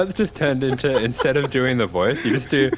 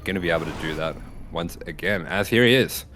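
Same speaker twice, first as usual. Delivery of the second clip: building play-by-play commentary; esports caster; 4 semitones lower than usual. Acted. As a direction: call the action like a caster. Casts the spawning player.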